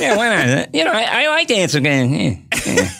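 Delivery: playful impression swinging through registers; Jay Leno. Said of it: "do the range of Leno".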